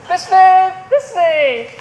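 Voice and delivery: loud, high mock-monstrous call; tiny monster trying fierce. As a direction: boom it in a monstrous little voice. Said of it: "I'll speak in a monstrous little voice".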